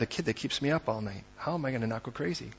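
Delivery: quiet, worn-out murmur; weary and low. Acted. Preacher voicing an exhausted parent to the congregation, quiet and weary. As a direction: say it like you're too tired to cope.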